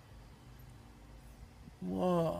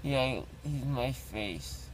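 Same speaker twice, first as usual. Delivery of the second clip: numb from the dentist. Real, not acted. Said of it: "my face is really big".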